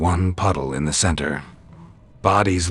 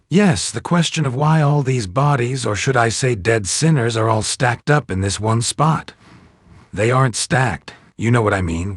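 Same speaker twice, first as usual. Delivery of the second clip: much higher, sneering and exasperated; sarcastic needling; 7 semitones higher than usual. A narrator's reading. Hand pestering Angel about the bones, sneering. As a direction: prod him with sarcasm. Hand's sarcastic back-and-forth.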